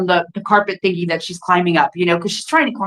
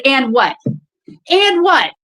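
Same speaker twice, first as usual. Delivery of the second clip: defiant challenge; 5 semitones higher, much slower than usual. Retold or imitated. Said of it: "And I said".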